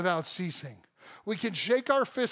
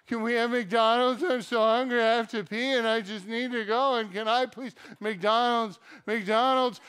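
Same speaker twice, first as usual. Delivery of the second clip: put-on higher, louder begging child voice; whiny kid; 3 semitones higher, 4 dB louder than usual. Kid in the back seat begging parents, whiny. Kids whining on road trip.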